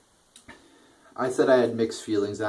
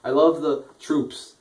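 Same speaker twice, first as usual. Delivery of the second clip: higher, mock-earnest Cena voice, slowing at the end; 3 semitones higher, 3 dB louder than usual. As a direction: parody Cena gushing over the troops, pitched up. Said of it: "where he's like".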